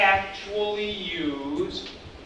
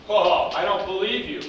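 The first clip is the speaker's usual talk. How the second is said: disbelieving question; 5 semitones higher, 4 dB louder than usual. Shown as a demonstration. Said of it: "when we go to ask questions".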